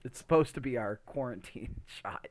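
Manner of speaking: whispered through a laugh. Real, not acted. Explaining the quarantine shoot to his co-host, whispered with a laugh. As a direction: let a chuckle breathe through the whispered words.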